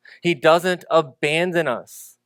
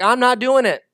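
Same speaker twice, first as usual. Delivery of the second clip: stubborn refusal; 5 semitones higher, 5 dB louder than usual. Retold or imitated. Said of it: "Moses is like".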